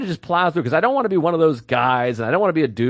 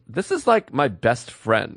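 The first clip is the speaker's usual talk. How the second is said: put-on ditzy girl; 4 semitones lower, slower than usual. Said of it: "She goes".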